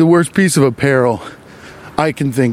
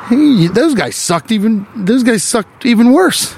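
higher, mock old-timey gangster; hammed-up 1920s tough guy; 5 semitones higher than usual. Comic mocking how 1920s men talked, hammed-up gangster voice.

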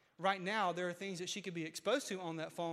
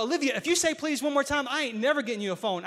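dramatic; 5 semitones higher, 8 dB louder than usual. Retold or imitated. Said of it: "I got a little bit dramatic".

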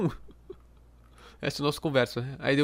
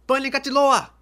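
higher, louder mock Finnish curse; a Finnish swear, higher and louder; 7 semitones higher, 4 dB louder, slower than usual. Shown as a demonstration. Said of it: "tem um xingamento em finlandês aqui".

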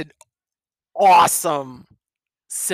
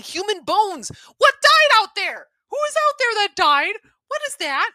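excited; 12 semitones higher, 4 dB louder than usual. Real, not acted. Listener excited by the prose.

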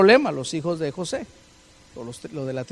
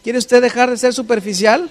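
louder challenge; 3 semitones higher, 7 dB louder than usual. Shown as a demonstration. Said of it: "Solo uno".

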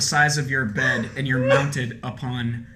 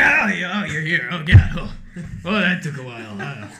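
startled npc; 4 semitones higher, 4 dB louder than usual. Acted.

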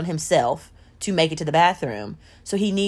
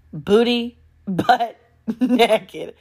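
"Booty butt naked" slow and higher, split by a laugh; drawn-out repeat; 3 semitones higher, much slower than usual. Real, not acted.

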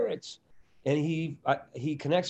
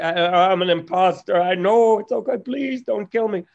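a nervous, pleading, self-deprecating babble; neurotic self; 4 semitones higher, 7 dB louder than usual. Retold or imitated. Comic pleading with Robin, mock panic, higher and louder. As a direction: beg not to be killed, half joking. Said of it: "that's my neurotic Jewish stuff".

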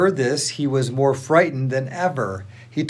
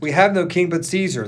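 higher, restrained narrated shout; shouting back; 5 semitones higher, 3 dB louder than usual. A narrator's reading. Leading priests answer Pilate, shouting back with restraint. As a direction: answer back firmly, only half shouted. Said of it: "the leading priest shouted back".

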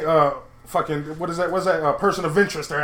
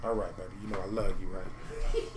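begging an ex back. Acted. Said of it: "go ahead and talk to the ladies".

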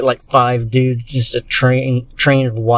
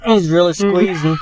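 laughing; 4 semitones higher than usual. Real, not acted. Laughing while telling.

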